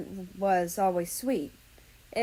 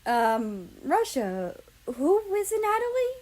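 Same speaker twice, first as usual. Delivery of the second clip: kindly asked; 8 semitones higher than usual. Acted. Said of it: "Japan asked kindly".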